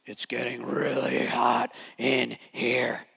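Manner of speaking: slow, low demon voice; man's voice. Retold or imitated. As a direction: draw it out like a demon. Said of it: "man's voice".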